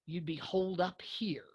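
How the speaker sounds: whispered aside. Acted. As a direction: drop to a whisper for the last words. Mother's knowing aside to Johns.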